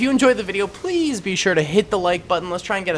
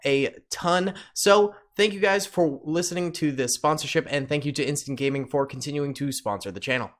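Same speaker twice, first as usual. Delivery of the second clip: softer sponsor read, eager start; 4 dB quieter than usual. Acted. Sponsor read for Instant Gaming.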